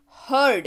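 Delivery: "हर्ड" as one careful syllable, short vowel; careful model pronunciation. Shown as a demonstration. Teacher asking students to listen closely, careful "हर्ड". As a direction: say "हर्ड" distinctly for learners to copy. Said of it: "उच्चारण ध्यान से सुनिएगा".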